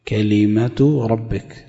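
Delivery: slow كلمة with a on the kaf and i on the lam; deliberate ka-li-ma vowels in كلمة; kalima in full. Shown as a demonstration. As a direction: spell out كلمة ربك slowly as ka-li-ma-tu rabbik. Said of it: "بفتح".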